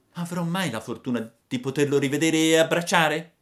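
put-on high, hopeful puppet boy; Pinocchio longing. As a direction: ask with hope for his father. (Pinocchio speranzoso, voce alta)

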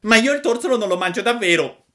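high, fast, furious puppet cry; puppet's shout. Acted. Pinocchio rifiuta il torsolo gridando contro Geppetto. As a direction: snap back like a viper. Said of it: "gridò il burattino rivoltandosi come una vipera".

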